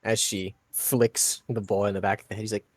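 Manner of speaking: ordinary talk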